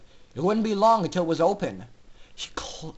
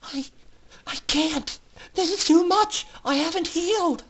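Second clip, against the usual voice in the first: much higher, trembling refusal; despairing filly; 10 semitones higher than usual. A narrator's reading. Aurora telling Scootaloo she can't fly, despairing. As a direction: plead that you can't go on.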